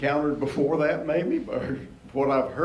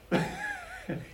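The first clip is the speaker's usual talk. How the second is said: amused laugh; 7 dB quieter than usual. Real, not acted. Amused by his own reading.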